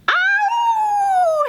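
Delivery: loud ow. Shown as a demonstration. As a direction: shout ow as loud as you can. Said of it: "As loudly as you can".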